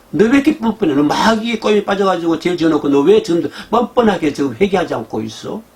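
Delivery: mild mock outrage; God scolding. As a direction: rebuke someone brazen. God rebuking shameless sinners.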